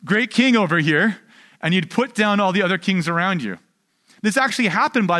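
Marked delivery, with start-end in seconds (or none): 0.0-1.2 boastful chest-beating. Retold or imitated. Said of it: "you kinda beat your chest".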